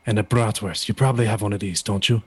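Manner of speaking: put-on German accent, measured delivery; a hint of a German accent; Walter. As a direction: attempt a German-accented wrestler. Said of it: "trying to do the German accent".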